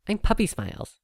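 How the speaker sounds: very high, loud cheerful filly; filly cheering her name while bouncing. Acted. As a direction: bounce as you say your name. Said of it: "cheered the filly".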